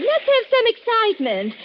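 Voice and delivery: high, eager and insistent; excited. Acted. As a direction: egg him on brightly. Wife urges husband, repeated line.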